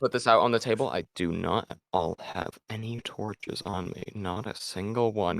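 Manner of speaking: fast, mock-serious sarcasm; deadpan sarcastic announcement. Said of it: "I am being sarcastic".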